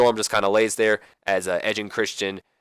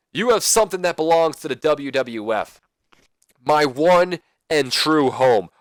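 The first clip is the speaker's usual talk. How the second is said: Kurt Angle promo; 4 semitones higher, 3 dB louder, slower than usual. Retold or imitated. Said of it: "Kurt Angle's in the ring with the microphone".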